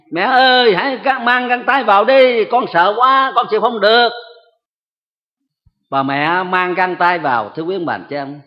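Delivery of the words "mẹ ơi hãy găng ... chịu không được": put-on higher, louder panicked plea from a child; frightened child crying out. Retelling a child begging mother to put her gloves on, higher and louder frightened cry. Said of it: "nó la lên".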